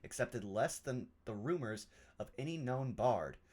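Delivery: measured, formal reading of a letter; deliberate, literary narration; journal read aloud. Acted. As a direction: read it out like a scholar's musings. Reads a journal entry aloud in character.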